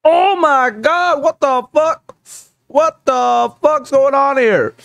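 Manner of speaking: high, slow, stunned outburst; shocked disbelief. Real, not acted. Streamer reacting to the chart in shocked disbelief. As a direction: let the shock stretch every word.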